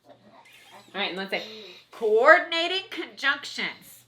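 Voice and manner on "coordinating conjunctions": nose pinched shut; plugged nose. Pretend. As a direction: say it holding your nose. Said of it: "let's all plug our nose".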